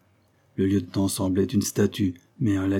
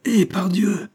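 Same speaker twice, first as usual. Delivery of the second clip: breathy whispered surprise; whispered exclamation; 11 semitones higher, 5 dB louder, slower than usual. A narrator's reading. Tessin recognizing the prisoner, whispered astonishment. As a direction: gasp it out in a whisper. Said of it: "proclama-t-il".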